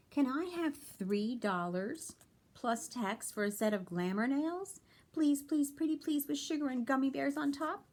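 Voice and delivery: high, loud pleading; begging. A narrator's reading. Beanie begging Mom for glamour nails, high and loud. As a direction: beg Mom sweetly, piling on the please.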